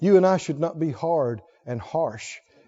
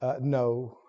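smiling no; 8 semitones lower, 8 dB quieter than usual. Retold or imitated. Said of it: "smile and go".

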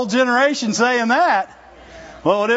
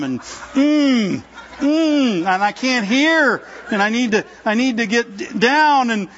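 mock fretful prayer. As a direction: ham up a worrier piling on needs. Mimics people's overcomplicated prayers.

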